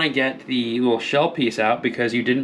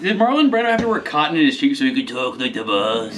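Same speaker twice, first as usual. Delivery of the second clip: mobster voice. Pretend. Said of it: "Mussolini or, like, Don Corleone".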